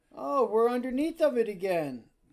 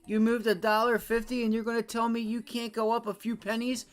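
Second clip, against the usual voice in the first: louder, pitched-up frustrated rant; angry rant; 4 semitones higher, 4 dB louder than usual. Real, not acted. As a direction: vent real anger at the market. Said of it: "You see why I get mad?".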